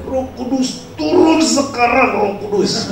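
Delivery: high, pressing call to the Spirit. Acted. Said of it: "dia semakin kencang".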